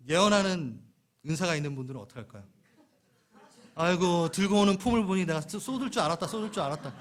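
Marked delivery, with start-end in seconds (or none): 3.8-6.9 know-it-all told-you-so. Acted. Prophecy gift reacting to spill.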